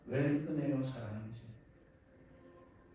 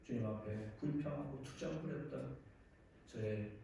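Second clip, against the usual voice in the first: penitent prayer; 2 semitones lower than usual. Real, not acted. Preacher confessing his complaints to God, hushed penitent prayer.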